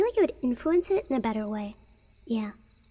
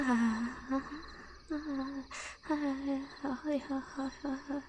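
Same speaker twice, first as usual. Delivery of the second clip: soft fake assistant laugh, spaced out; Siri; 8 dB quieter than usual. Streamer showing what happens when you tell Siri to laugh, soft mock laugh. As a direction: imitate a voice assistant's quiet ha-ha. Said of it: "when you tell Siri to laugh".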